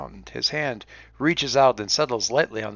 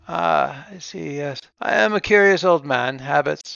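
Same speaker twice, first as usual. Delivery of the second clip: put-on old accountant voice; 3 semitones higher than usual. Leif chuckles at himself.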